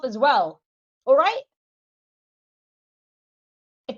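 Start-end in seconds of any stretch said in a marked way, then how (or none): 1.0-1.4 louder, higher, snapped challenge; angry shout. Real, not acted. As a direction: bark it out furious. Angry rant at hater.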